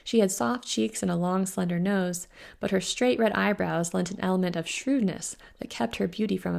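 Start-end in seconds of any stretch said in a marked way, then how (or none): none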